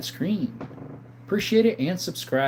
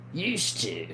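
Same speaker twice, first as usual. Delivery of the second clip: used said slow and firm, quieter; stress on used to; 6 dB quieter than usual. Shown as a demonstration. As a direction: hit used to mark it as past. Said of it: "used to means, yeah, past tense".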